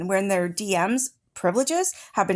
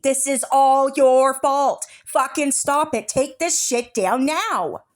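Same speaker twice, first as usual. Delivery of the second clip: angry slow demand; 3 semitones higher, 3 dB louder, slower than usual. Real, not acted. Berating Psycho Bunny again.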